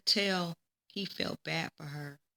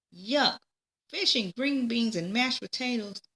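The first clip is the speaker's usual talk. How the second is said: high, loud yuck of distaste; disgusted child; 5 semitones higher, 3 dB louder than usual. Acted. Peggy looking at her dinner plate in childish disgust. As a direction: recoil from the plate like a picky kid.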